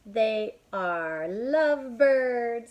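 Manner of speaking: high, loud, slow squeal of a pig friend; Piggy announcing big news; high bubbly Piggy voice; excited Piggy. Acted. Piggy voiced in story read aloud.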